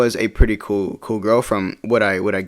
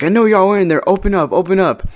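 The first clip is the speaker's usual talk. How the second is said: higher-pitched imitation of a demanding ex; mock angry demand; 8 semitones higher, 3 dB louder than usual. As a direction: call through the door, acted lightly. Ex demanding entry through door.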